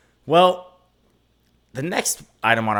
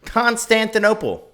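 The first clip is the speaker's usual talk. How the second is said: high, loud, stretched-out proclamation; theatrical announcement; 10 semitones higher, 6 dB louder, slower than usual. Pretend. Guesser answering where Turkish delight began, theatrical announcement. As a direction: belt it out slowly and grandly.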